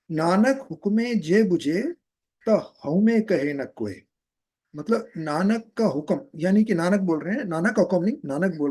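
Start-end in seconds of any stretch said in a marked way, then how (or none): 0.1-4.0 slow recited line of gurbani; verse quotation. Shown as a demonstration. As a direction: recite the quoted verse slowly. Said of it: "quoting the verse".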